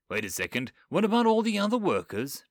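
a touch of indignation, rising; girl objecting to leaving the workers, mildly indignant. Acted. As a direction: protest it to the man. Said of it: "Lisa asked indignantly".

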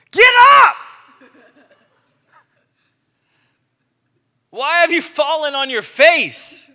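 booming, high, loud divine rebuke; commanding God. Acted. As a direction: thunder down on him as God. The Lord rebukes Joshua.

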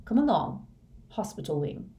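gently urge, holding back tears; close to tears. A narrator's reading. McGonagall leading Harry to hospital wing, close to tears. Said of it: "as though she was about to cry".

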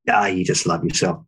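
lightly sarcastic taunt. Retold or imitated. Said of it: "very sarcastic comment".

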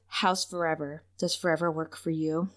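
quietly voiced, intimate question; soft, tender quote. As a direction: ask it softly, as if to a lover. Voices Buffy's tender question to Angel.

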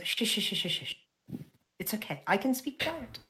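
soothing shush. Acted. Spyro hushes Jude with a hand on his face, softly soothing. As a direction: settle him down gently with a fading shh. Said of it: "He goes".

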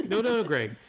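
mock French accent from the brother; imitating a heavy French accent, mildly. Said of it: "with a heavy French accent".

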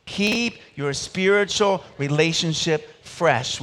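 slow, said together in unison; preacher repeating the motto with the congregation, slow; slow call and response. Shown as a demonstration. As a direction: chant the motto back with the congregation. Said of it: "Would you say that with me?".

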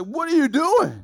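mild indignant protest. Retold or imitated. Young king protests monkey.

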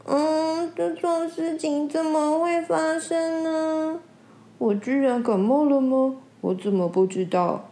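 sighing. Acted. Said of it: "一面叹气说".

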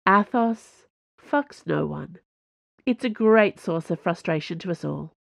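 treat a friend's love life like a great tragedy; mock tragic. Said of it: "as if she was discussing a great tragedy".

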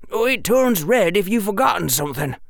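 put-on high, quick boyish character voice; high-pitched chattering boy; eager schoolboy. Boy explains in dialogue.

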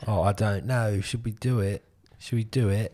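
lilting put-on British accent. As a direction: play along in mock British. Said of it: "Should we all speak in a British accent".

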